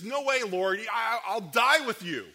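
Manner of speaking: loud, slow, high-pitched insistence; fervent protest. Acted. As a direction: swear loyalty with full force. Peter's vow to Jesus.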